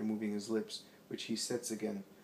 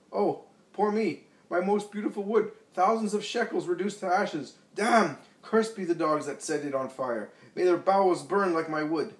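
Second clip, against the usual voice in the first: shrill, much higher and louder wailing curse; old scribe wails over his burning wood, cursing; despairing rage; 8 semitones higher, 9 dB louder than usual. A narrator's reading. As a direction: howl and curse the loss of everything. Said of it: "The old, little old man is in despair".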